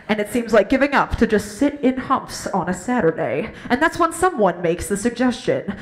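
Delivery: loud mock-epic trailer narrator; booming announcer send-up; movie trailer voice. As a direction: build it like a dramatic trailer voice-over. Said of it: "your life should be a movie trailer".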